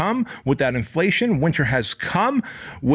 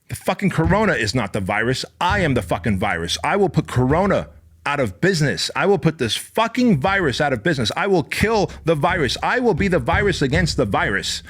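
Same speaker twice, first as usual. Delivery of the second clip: higher, punchy war-cry declarations; fired-up vow; 4 semitones higher than usual. Retold or imitated. Founder vowing to beat the pandemic, fired-up battle cry. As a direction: talk yourself into battle. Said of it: "I was like".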